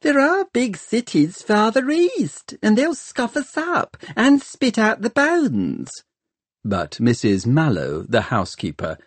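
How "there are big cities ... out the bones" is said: high, anxious servant voice; fretting servant. Acted. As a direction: fret about it to a friend.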